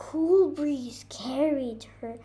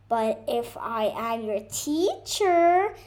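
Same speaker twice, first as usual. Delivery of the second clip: bird voice cutting in, louder; interrupting bird; 6 dB louder than usual. Acted. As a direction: cut in quickly as the little bird. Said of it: "the bird interrupted".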